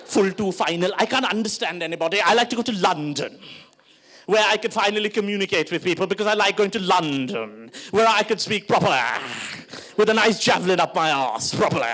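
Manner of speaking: put-on affected posh South Bombay English accent; over-proper British-Indian accent, savouring each ending. Posh friend longing for London, very posh accent. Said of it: "he's very posh".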